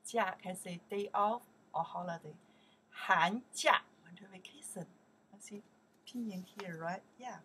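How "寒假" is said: 寒假 called out loud, rising; model pronunciation. Shown as a demonstration. Teacher drilling 寒假 for the class, loud. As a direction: say 寒假 clearly for repetition. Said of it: "we pronounce here".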